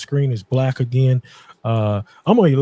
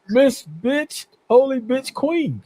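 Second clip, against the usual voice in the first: laughing; 9 semitones higher, 4 dB quieter, slower than usual. Real, not acted. Host reads the crude name, still laughing.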